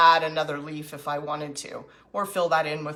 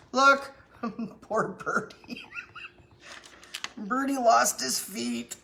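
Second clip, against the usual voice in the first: giggling through the words, slowly; laughing; 5 semitones higher, slower than usual. Real, not acted. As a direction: laugh while pitying the poor bird. Laughing at broken bird.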